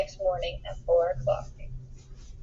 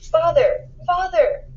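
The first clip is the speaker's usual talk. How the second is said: put-on children crying out, higher and louder; calling out; 8 semitones higher, 3 dB louder, slower than usual. A narrator's reading. Children taken away calling to their father, desperate calls. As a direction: call desperately across the crowd.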